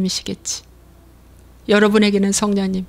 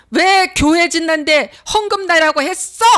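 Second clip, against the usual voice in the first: whiny complaint; 7 semitones higher than usual. Retold or imitated. Preacher voices grumbling believer.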